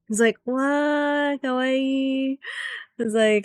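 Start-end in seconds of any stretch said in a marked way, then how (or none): 0.4-2.4 higher, cooing kawaii squeal; high mock squeal; mock smitten. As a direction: gush like an anime fan. Voicing a smitten character.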